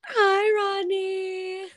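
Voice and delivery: squeaky high greeting; voice cracking. Real, not acted. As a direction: voice shoots up, cracking with excitement. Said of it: "I don't know why my voice went up, like, eight octaves".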